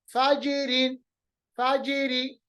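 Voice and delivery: फाजिरीन with j bounced; spring off the j in फाजिरी; qalqalah. Shown as a demonstration. Teacher drills jeem, फाजिरी with echoed j. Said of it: "जीम पे कलकला".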